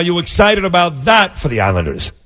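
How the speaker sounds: usual speaking voice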